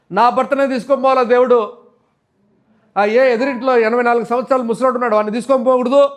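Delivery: aggrieved complaint, acted without real tears; retold bitter lament. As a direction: imitate a widow protesting to God. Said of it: "ఒక తల్లి ఏడ్చింది".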